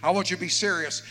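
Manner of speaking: high, loud, driving sermon; full-force preaching. Real, not acted. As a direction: preach it hard to the whole room.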